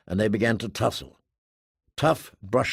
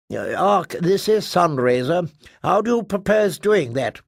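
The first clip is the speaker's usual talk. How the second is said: higher, louder doubtful question; skeptical ship captain; 6 semitones higher, 3 dB louder than usual. Acted. Sunraiser questioning the Ark, skeptical. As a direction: ask how he'll manage it.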